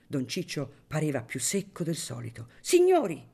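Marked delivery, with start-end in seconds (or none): 2.6-3.2 loud, high call for attention; raising his voice. A narrator's reading. Paglietta addressing the guests as in court, loud call. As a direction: call the room to order. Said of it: "alzando la voce".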